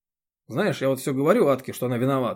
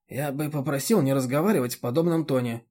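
usual speaking voice

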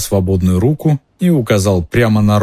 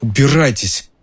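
groaning; 5 semitones higher than usual. A narrator's reading. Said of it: "простонав".

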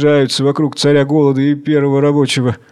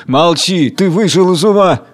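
raised, wrathful rebuke; angry cry; 4 semitones higher than usual. Acted. King silences the old man, crying out angrily. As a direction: cut him off in mild acted fury. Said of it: "Царь голод кричит гневно".

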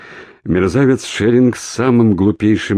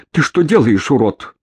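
angry shout; 7 semitones higher than usual. A narrator's reading. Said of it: "крикнула Надежда".

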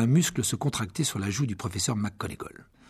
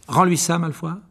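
high, loud stern command; 6 semitones higher, 5 dB louder than usual. Acted. Percy demanding Malfoy give the diary back, loud and stern. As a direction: order it back with authority. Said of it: "d'un ton sévère".

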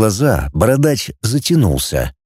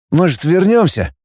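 higher, tentative suggestion; unsure; 6 semitones higher than usual. Acted. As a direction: float it hesitantly, pitched up. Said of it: "неуверенно предложил волосатый". (неуверенно, повыше)

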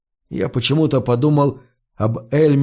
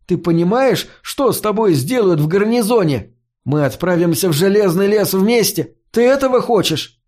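exasperated; 6 semitones higher than usual. Acted. Фари отчитывает Эда.

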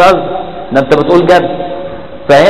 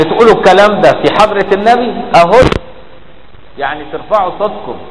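higher-pitched scandalised question; indignant rebuke; 4 semitones higher than usual. Acted. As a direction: take them to task in disbelief. Acted rebuke of the noisy crowd.

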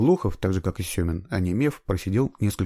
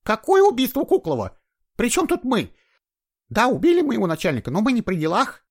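much higher, louder indignant protest; outraged woman; 5 dB louder than usual. A narrator's reading. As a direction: she shouts her innocence. Женщина кричит на следователей. (возмущённая женщина, громко и высоко)

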